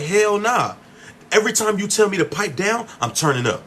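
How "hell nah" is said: defiant hell nah. Retold or imitated. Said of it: "I'm like".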